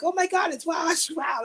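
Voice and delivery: high, loud shriek of a starstruck fan; excited fan shout. Retold or imitated. Fan spots the singer rushing through the casino, shrieking. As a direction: squeal like you just spotted a celebrity.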